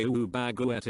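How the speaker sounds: lightly put-on French accent on "Ooh, baguette"; a quick mock French "Ooh, baguette". Retelling the baguette cat meme, a light mock French accent. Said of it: "in a French accent".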